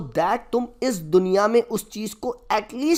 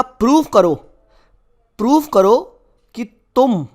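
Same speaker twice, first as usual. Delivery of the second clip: louder, pressing demand to prove it; demanding challenge; 4 semitones higher, 5 dB louder than usual. Retold or imitated. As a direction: throw down the challenge to the student. Teacher challenges imagined student. (ज़ोर से चुनौती देते हुए)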